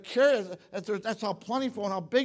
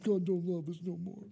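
high whiny mock complaint; whining; 6 semitones higher than usual. Preacher mimicking the scared spies whining to God, high and whiny. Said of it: "they're whining".

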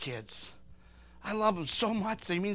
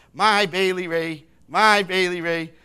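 doting grandpa; 7 dB louder than usual. Retold or imitated. Grandpa showing off his granddaughter, doting singsong. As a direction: gush over your little granddaughter.

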